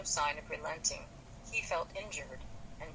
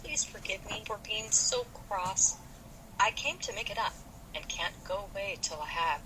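meek; 3 semitones higher than usual. Acted. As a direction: plead meekly to be forgiven. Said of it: "said meekly".

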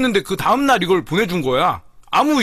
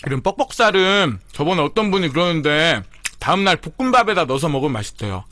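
chewing between words; eating while chatting; mouth partly full; 2 semitones lower than usual. Real, not acted. Seen 1: took bites before; lips working, chicken in hand throughout.

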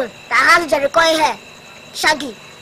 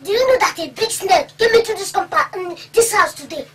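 high fast nervous story; excited telling; 4 semitones higher than usual. Acted. Son nervously telling his father about the snake. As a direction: blurt it out nervously.

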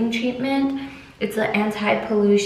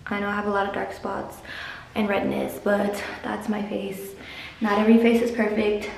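slightly out of breath, fast; talking a bit out of breath. Real, not acted. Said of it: "I don't know why I'm so out of breath".

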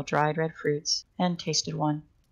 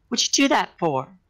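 higher, angry yell after the pain; 4 semitones higher, 4 dB louder than usual. Acted. Naylor yells at Lucky Girl after her thumb in his wound. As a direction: shout it, still hurting. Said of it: "he yelled".

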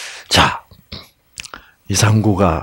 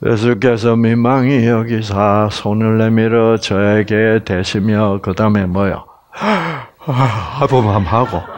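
yawning reading. Shown as a demonstration. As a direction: read as if half asleep, then yawn. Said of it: "사람들이 성경을 이렇게 읽고 있어요".

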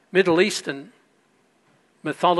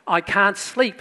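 little daughter; 4 semitones higher, 4 dB louder, slower than usual. Retold or imitated. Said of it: "the daughter runs in and says".

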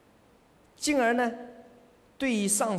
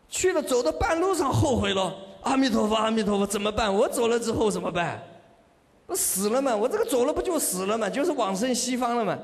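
raised, agitated storytelling voice; mock panic; 3 semitones higher than usual. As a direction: act out sudden second thoughts. Acts out regretful, panicking believer. (模仿后悔慌张的样子)

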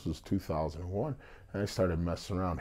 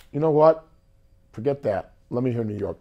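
louder, higher retold order; brash demand; 6 semitones higher, 9 dB louder than usual. Restaurant owner's wife demanding an audition song, brash. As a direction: imitate a boss cutting in loudly.

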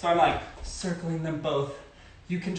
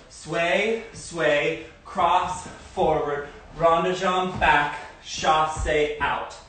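calling dance steps; much slower than usual. Shown as a demonstration. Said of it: "Start on the left leg".

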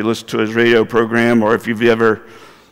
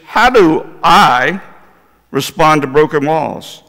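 slow down and lean hard on "I"; stress on I; slower than usual. Real, not acted. Contrasts I, you, church.

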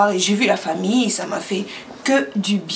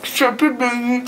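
mouth full; 2 semitones higher, slower than usual. Real, not acted. Marshmallow challenge, mouth full.

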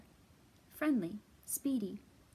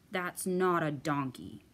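grumpy bear; 5 semitones lower, 4 dB louder than usual. Acted. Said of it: "cried Bear".

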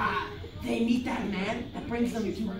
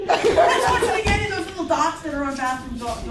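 laughing; 9 semitones higher, 6 dB louder than usual. Real, not acted. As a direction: get it out while cracking up. Cracking up while proposing.

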